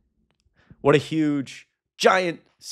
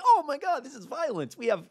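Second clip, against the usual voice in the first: mock victim whine; 9 semitones higher, 4 dB quieter than usual. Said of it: "You're like".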